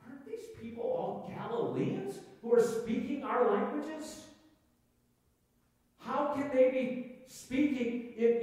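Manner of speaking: high-pitched, incredulous questioning; acted astonishment. Jews in Jerusalem questioning how uneducated Galileans speak their languages, astonished.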